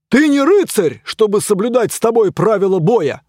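loud, high scornful retort; indignant yell. Acted. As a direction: put him in his place. Knight yells back.

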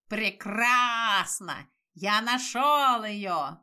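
slow, nasty squeaky little voice; creaky crow voice, drawn out slowly; squeaky rubber duck. Acted. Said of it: "противный скрипучий голосок".

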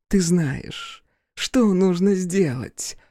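block his way with a tipsy leer. Acted. Drunk daughter teases.

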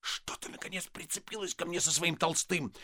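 husband whispering angrily; angry whisper. Acted. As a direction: hiss so neighbours won't hear. Husband hissing in quarrel.

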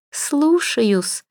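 high mock-obedient «Слушаюсь»; ironic. A narrator's reading. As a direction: daughter mockingly obeying her mother. Same ironic reply.

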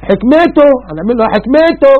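high, sneering mock of his wisdom; sarcastic complainer, lightly voiced; mocking sarcasm. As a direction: scoff at the word حكمته. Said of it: "وفي اللي بيشتم ربنا بطريقة بقى يعني يقول لك".

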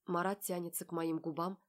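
plain reading voice

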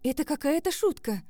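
high, loud disbelief. Acted. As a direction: refuse to believe it. Героиня не верит. (высоко и громко, с неверием)

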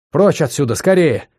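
out of breath, urgent and rising; panting shaky eyewitness. Acted. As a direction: gasp it out in a hurry. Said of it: "задыхаясь".

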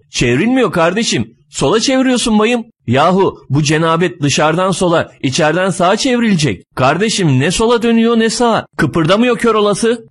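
high-pitched, exasperated back-and-forth; bickering. Acted. Fat man and driver wrangle over the door, bickering. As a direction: argue over a handle that will not budge. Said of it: "Bir hayli çekişiyorlar".

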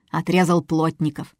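ordinary delivery

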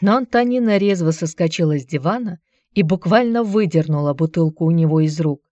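ordinary delivery

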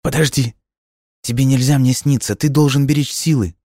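put-on high, urgent young girl's voice; girl pleading. A narrator's reading. Girl begs the ghostly boy to save strength, high and urgent. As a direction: plead with him, alarmed and high.

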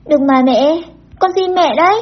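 put-on high-pitched childlike plea; beg, letting the pitch rise sharply; tearful begging. A narrator's reading. Crying child refusing to let mother go, tearful begging. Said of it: "Tôi vẫn khóc".

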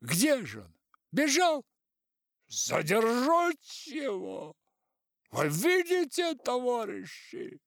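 very high, loud alarmed call; shouting. A narrator's reading. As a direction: call out to stop him. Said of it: "знакомый голос прорезал хор".

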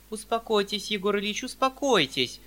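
high, loud anxious cry; exclaiming. Acted. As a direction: cry out to calm him. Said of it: "вскрикнула Анфиса Петровна".

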